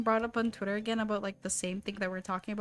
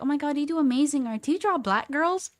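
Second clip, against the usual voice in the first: imitating uncle; 4 semitones higher, 5 dB louder, faster than usual. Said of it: "He's like".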